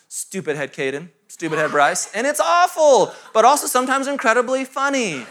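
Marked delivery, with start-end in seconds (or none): 0.1-2.1 put-on toddler insult. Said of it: "She goes".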